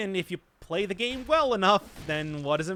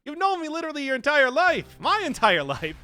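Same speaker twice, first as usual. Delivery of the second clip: high, louder mock disbelief; incredulous retort; 9 semitones higher, 5 dB louder than usual. Son answering his mom, high and incredulous. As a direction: act stunned that she never noticed.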